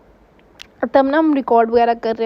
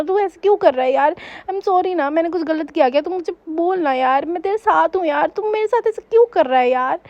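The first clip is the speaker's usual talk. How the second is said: scolding the ghost; 3 semitones higher than usual. Retold or imitated. Girl scolding the ghost for pulling her hair, mock angry. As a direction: tell off the ghost half-hurt, half-cross. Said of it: "मैं उसे डांटी जा रही हूँ".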